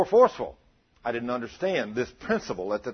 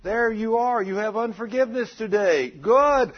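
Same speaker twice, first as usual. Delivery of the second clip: high, slow, gloating devil voice, savoring the catch; 9 semitones higher, 4 dB louder, slower than usual. Acted. Preacher voicing the devil spotting a sinner, high and gloating. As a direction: purr it like a devil who found his prey. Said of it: "he looks and he says".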